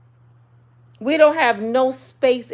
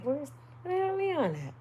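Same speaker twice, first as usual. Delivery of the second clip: hushed church whisper; 5 semitones higher, 12 dB quieter than usual. Retold or imitated. Whispering in church during prayer.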